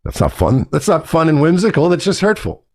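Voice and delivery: mock hurt voice. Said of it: "one more time".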